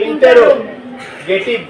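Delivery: ইন্টারোগেটিভ drawn out slowly in parts; broken into parts. Shown as a demonstration. Teacher showing pupils how to read it, ইন্টারোগেটিভ broken up slowly. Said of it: "ভাঙ্গে ভাঙ্গে পড়া এটাকে".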